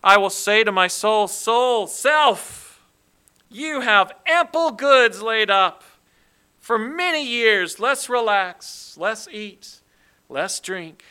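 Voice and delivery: a loud, smug, self-satisfied boast; arrogant pride. Acted. Preacher voicing the proud rich man talking to his soul. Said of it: "the arrogant pride in how the man addresses himself".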